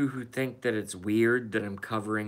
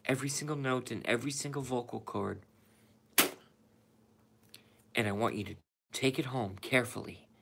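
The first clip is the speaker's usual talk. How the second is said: Donnie movie quote. Retold or imitated. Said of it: "This is from Donnie from The Wolf of Wall Street".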